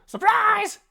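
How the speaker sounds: high, loud mock surprise; surprised shout. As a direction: burst out with surprise.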